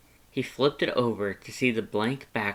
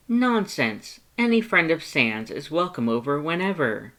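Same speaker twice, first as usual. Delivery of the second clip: higher, loud insistent welcome; emphatic Papyrus; 6 semitones higher, 5 dB louder than usual. Acted. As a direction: brush aside the worry.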